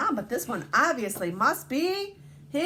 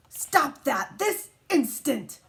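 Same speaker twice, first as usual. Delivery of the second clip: stern mom; 3 semitones higher, slower than usual. Acted. Scolding as mom.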